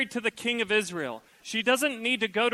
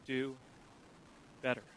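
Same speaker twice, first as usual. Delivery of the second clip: tempting evil whisper; 6 semitones lower, 14 dB quieter than usual. Retold or imitated. Evil one planting doubt in a spouse's mind, insinuating. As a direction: slide the doubt in quietly. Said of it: "an evil one who begins to subtly plant".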